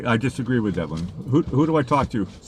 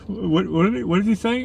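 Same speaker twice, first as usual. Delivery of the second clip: higher-pitched, baffled questioning; acted bafflement; 8 semitones higher than usual. Retelling his reaction to the heckler, high-pitched bafflement. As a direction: replay being taken aback, pitch lifted.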